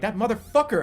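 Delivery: mock anger. Spotting the dart guy again.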